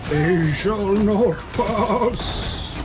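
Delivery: Gandalf voice. Pretend. Quoting Gandalf on the bridge.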